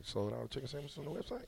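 usual speaking voice

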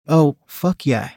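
slow, breathless gasp; a slow, breathy gasp of pleasure. A narrator's reading. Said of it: "I gasped".

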